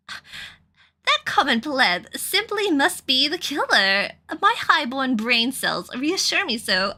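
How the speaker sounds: slow, snooty posh noblewoman. Acted. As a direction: look down your nose at them. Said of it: "I'm going to give her a posh voice".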